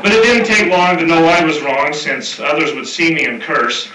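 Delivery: reciting a rhyming cowboy poem; cowboy poetry. Acted. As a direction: read it like a campfire cowboy verse. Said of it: "it's somewhat of a cowboy poem".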